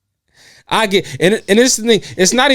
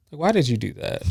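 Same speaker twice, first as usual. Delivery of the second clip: soft cutesy voice; 9 dB quieter than usual. Retold or imitated. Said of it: "a cutesy".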